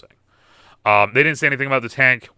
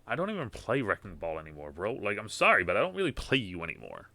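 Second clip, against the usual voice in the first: soft pet talk; 7 dB quieter than usual. Real, not acted. Owner asking his hamster Cammy, in a hushed murmur. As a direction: murmur gently to the little hamster.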